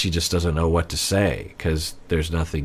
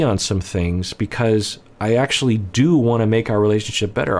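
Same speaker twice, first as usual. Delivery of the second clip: tender reassurance; 2 semitones higher than usual. Shown as a demonstration. A coach models how a husband speaks to his wife, tender and sincere. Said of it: "tell someone like Johnny Depp to say".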